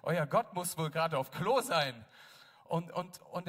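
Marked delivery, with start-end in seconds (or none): 0.0-2.0 mocking. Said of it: "er macht sich so lustig".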